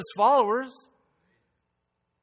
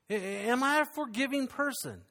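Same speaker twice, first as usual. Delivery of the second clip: "am I a forgiving person" asked again, pitched higher; higher repeated question; 5 semitones higher, 4 dB quieter than usual. Shown as a demonstration. Preacher pressing the congregation again, asked higher. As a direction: lift the repeat up to press it home.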